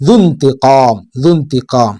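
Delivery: ദുൻതിഖാം read slowly, short ദു then നൂൻ, no long ദൂ; ദുൻതിഖാം with the waw and alif silent; careful Arabic reading. Shown as a demonstration. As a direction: model ദുൻതിഖാം syllable by syllable. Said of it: "ദൂ കഴിഞ്ഞാൽ നൂന വായിക്കുക".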